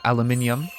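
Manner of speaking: "aluminium" said the British way, with five syllables; British-style "aluminium", stressed on "min"; British pronunciation. Shown as a demonstration. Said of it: "imitate some of the ways they said".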